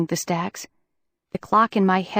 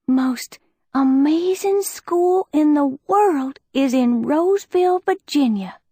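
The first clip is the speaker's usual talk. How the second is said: dreamy; 6 semitones higher than usual. Acted. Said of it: "Liz's voice had taken on a very dreamy quality".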